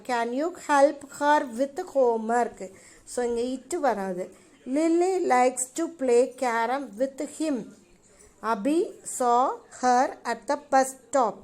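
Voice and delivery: slow, careful reading of the exercise sentences. Shown as a demonstration. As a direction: read each sentence slowly for the class. Reads exercise sentences slowly. (மெதுவாக வாசிப்பது)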